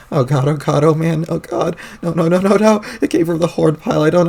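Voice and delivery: mild rising panic at a sound; panicked. Acted. Hears a honk among bodies.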